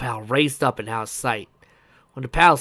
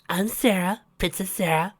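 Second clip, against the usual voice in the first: high little princess voice; small girl's higher-pitched, self-important introduction; a bit proud; 7 semitones higher than usual. A narrator's reading. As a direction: introduce yourself with a touch of pride. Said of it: "She emphasized with a bit of pride".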